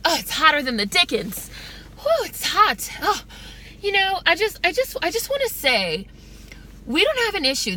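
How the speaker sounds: high-pitched, campy skit character; polite Klan member. Retold or imitated. Chappelle skit's Klan member under a hot hood, campy and polite. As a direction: put on a high, fussy-polite bigot voice. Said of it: "saying something in a very polite way".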